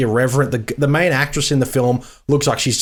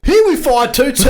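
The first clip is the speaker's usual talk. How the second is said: hammed-up announcer; 9 semitones higher, 4 dB louder than usual. Hammed-up start of synopsis read.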